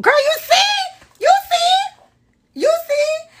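very high, loud drawn-out squeal; piercing high-pitched outburst; shrieking exclamation. Real, not acted. Exclaims at fan's story.

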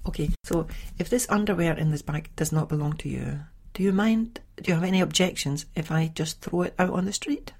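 a sweet, overly polite threat; icy calm. Retold or imitated. Mother calmly asking the lodger on the phone, icy politeness. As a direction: ask it calmly, the threat hidden under politeness. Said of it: "but calmly, I said".

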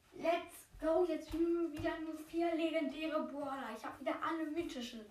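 high, loud squealing cheer. Real, not acted. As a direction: cheer like you just won big. Cheering over a rare pull.

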